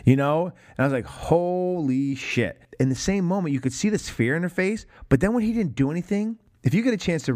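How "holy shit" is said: drawn-out stunned reaction; retold awe. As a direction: stretch each syllable slowly in amazement.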